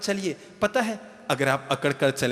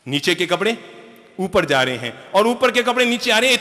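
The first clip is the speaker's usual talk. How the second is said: loud repeat; 5 semitones higher, 4 dB louder than usual. Shown as a demonstration. Preacher repeats line for effect.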